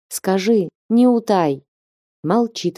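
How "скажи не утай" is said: ordinary delivery, nothing marked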